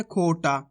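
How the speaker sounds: खोटा with a long drawn-out final aa; stretched final AA. Shown as a demonstration. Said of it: "तो खींच के पढ़ देंगे".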